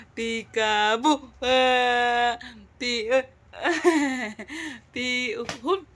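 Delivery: very slow, drawn-out call; playful peekaboo. Real, not acted. Mother plays peekaboo with her baby, stretched and playful.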